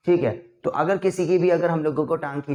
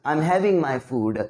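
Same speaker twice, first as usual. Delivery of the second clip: slow demo; much slower than usual. Shown as a demonstration. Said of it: "बोलते हैं ना हम लोग कि".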